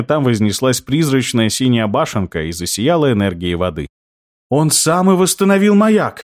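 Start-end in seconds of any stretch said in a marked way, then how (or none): 4.5-6.2 high chirpy creature voice; chirping little creature. Acted. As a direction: chirp it brightly. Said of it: "чирикнул Птюч".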